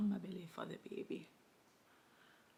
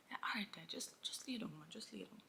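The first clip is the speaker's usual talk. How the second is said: sleepy mumble; 7 dB quieter than usual. Retold or imitated. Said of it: "I think he was still just sleepy".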